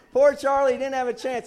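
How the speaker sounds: high, loud preacher's quote; loud retold exclamation. Preacher repeating the wife's remark to church, loud exclamation. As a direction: belt out the quoted line to the room.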